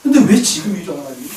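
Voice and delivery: retold question, trailing into softness; subdued re-enacted protest, dying down at the end; questioning God. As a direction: ask God why, fading away. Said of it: "그렇게 하나님 앞에 반문하고 있더라는 거예요".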